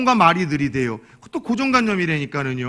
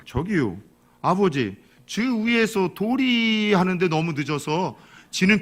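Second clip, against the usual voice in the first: slow Chungcheong son. Retold or imitated. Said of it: "아들이 늦게 얘기해서".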